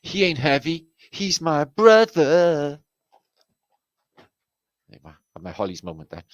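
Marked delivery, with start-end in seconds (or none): 0.0-2.8 welling up. Real, not acted. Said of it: "I burst out into tears".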